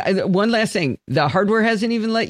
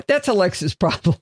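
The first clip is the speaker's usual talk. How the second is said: ordinary talk, nothing marked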